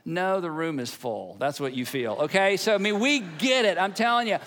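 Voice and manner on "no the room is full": put-on deadpan preacher's kid. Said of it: "preacher's kids are going".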